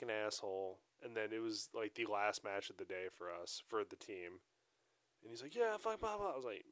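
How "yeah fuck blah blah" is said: mocking cheer. Rival coach cheering, quoted.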